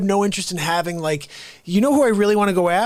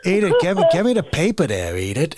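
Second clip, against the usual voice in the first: Archie Bunker. Retold or imitated. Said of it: "how he used to talk".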